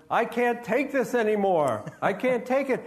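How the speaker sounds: ghost breaking down at the awful song; hammed-up despair; desperate ghost. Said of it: "And the ghost says".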